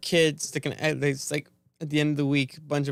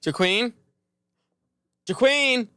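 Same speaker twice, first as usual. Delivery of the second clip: puzzled echo; 7 semitones higher, 4 dB louder, slower than usual. Retold or imitated. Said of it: "And I'm just smiling, like".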